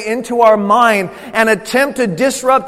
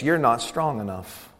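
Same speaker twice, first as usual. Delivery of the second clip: tag; 8 semitones lower, 8 dB quieter than usual. Retold or imitated. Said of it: "the enemy to come in and whisper in your ear".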